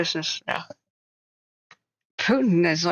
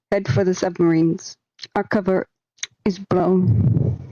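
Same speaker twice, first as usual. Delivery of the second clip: lightly performed Soviet emergency announcer; a touch of staged alarm-broadcast delivery; mock official announcement. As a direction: announce an evacuation to your comrades, in measured phrases. Acted Soviet alert to comrades.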